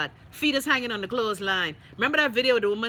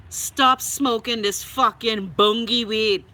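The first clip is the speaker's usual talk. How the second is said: slow, louder, word by word scolding; slow scolding plea; 5 dB louder, much slower than usual. Real, not acted. To fellow Bahamians, slow loud scolding. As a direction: lay each word down slowly and hard.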